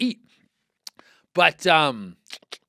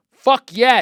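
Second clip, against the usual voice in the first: shouted, high triumphant answer; loud emphatic yes; 6 semitones higher, 8 dB louder than usual. Real, not acted. Host answering his own question, loud triumphant shout.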